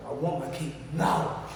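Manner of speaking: slow, lightly acted bully's demand; insistent demand. Big cellmate demands the cake, insistent. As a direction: spell out the demand slowly.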